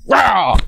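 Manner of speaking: playful mock dog growl; pug growl. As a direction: bark a short fake pug snarl. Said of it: "That's my best pug impression".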